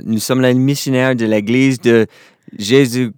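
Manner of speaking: embarrassed missionary tripping over his French; flustered, laughing. Retold or imitated. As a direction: stumble through it, laughing at yourself. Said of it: "a little flustered over".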